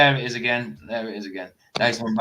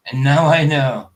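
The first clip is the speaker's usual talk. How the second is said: louder, emphatic repeat; 3 semitones higher, 7 dB louder than usual. Pretend. Repeating the friend's line with louder emphasis. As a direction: punch it louder the second time.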